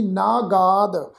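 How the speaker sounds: "ਨਾਗਾਦ" slowly, both aa vowels long; demonstrated pronunciation. Shown as a demonstration. Teacher sounding a word just spelt, slow careful pronunciation. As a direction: draw out "ਨਾਗਾਦ" as naa-gaad. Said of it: "ਨੰਨੇ ਨੂੰ ਕੰਨਾ".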